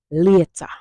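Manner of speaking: "later" said as "lieta", loud and falling; Patois goodbye. Shown as a demonstration. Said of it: "Here is it in a sentence".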